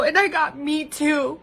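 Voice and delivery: tearful voice on the edge of breaking; fighting back happy tears; crying. Real, not acted. Overwhelmed with gratitude on camera.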